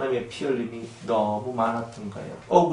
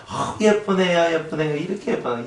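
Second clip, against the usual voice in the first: 다정한 칭찬; 5 semitones higher than usual. Retold or imitated. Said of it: "이렇게 되는 거예요".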